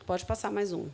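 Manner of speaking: ordinary delivery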